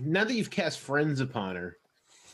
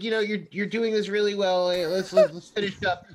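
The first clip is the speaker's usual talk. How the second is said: mildly impatient, higher-pitched hurry-along; a touch of irritation, pitched up; irritated; 4 semitones higher, 4 dB louder than usual. Acted. Woman hurrying her lover to finish up, mildly irritated. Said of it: "really kind of, like, irritated".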